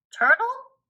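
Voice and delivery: high, loud call to a passing turtle. Acted. Toad hails a swimming turtle, high and loud. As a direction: hail the turtle.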